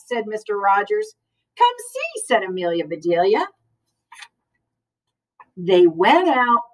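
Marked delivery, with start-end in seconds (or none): 1.6-2.2 eager invitation. A narrator's reading. Amelia inviting Mister Rogers.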